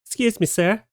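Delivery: high, sweet pleading cat voice asking "Excuse me, sir" with a rising tune; a lightly voiced cat asking nicely, "Excuse me" lifted up; polite begging cat. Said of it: "politely asking a tourist for some of his food".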